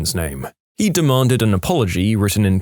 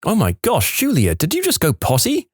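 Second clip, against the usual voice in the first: put-on high, gushing praise for a toddler; excited mum; 8 semitones higher than usual. Mum cheering her toddler's first potty, excitedly high. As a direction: squeal it like a proud mum. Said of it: "her mum got all excited".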